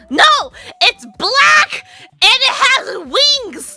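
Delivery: high, loud exasperated shout; irritated yell. Retold or imitated. Nobi yells at the stubborn shopkeeper, high and loud. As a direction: yell it at her, fed up. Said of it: "のびもちょっとカチンときちゃって".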